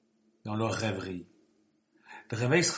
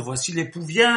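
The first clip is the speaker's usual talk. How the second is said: loud call; 3 semitones higher, 6 dB louder than usual. Acted. The cry heard again.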